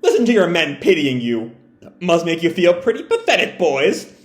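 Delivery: mocking villain voice; taunting. Big Mom taunting Kid and Law, mild mocking sneer. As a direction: sneer at the beaten captains. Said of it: "Big Mom just taunts them".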